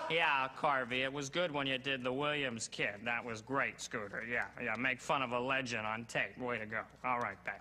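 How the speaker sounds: a hint of a sardonic showbiz buddy; casual, sarcastic congratulations from a hipster boss; lightly voiced showbiz pal.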